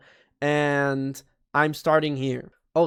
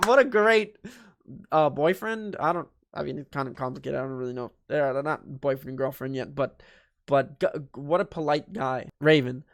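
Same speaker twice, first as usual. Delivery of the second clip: ordinary delivery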